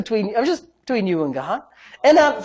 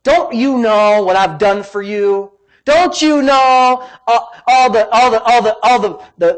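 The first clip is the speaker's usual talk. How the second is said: acted huffy self-justifying complaint; mock offended outburst; huffy puffy; 2 semitones higher, 4 dB louder than usual. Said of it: "got all huffy puffy and said".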